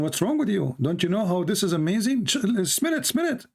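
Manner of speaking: urging excitedly. Retold or imitated. Man urging the other to smell the camel poop, rising excited coaxing. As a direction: push him to sniff it, rising to a squeal. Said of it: "said to him".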